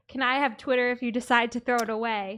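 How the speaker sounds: plain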